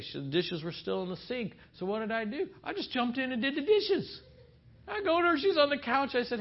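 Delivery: high, eager bragging; hammed-up husband pleased with his good deed; proud excitement.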